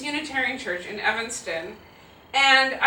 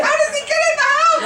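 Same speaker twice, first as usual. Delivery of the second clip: put-on worried child; 8 dB louder than usual. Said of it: "She's like".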